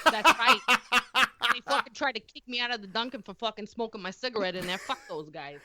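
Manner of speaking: put-on Boston accent. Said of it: "in the voice of a heavy Boston accent".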